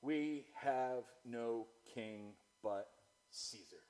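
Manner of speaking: very slow, word by word, falling away; solemn slow answer. Acted. Chief priests answering Pilate, slow deliberate declaration. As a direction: set each word apart, sinking low on the last.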